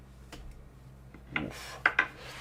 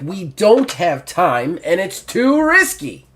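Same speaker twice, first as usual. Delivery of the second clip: urgent cat woman; 7 semitones higher, 4 dB louder, slower than usual. Acted. Ocelot urges him.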